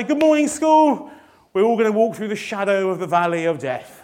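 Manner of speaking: a hint of a head teacher's cheery assembly greeting; mock-cheerful morning briefing. Head teacher greeting the school, mock-cheerful briefing. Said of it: "will say".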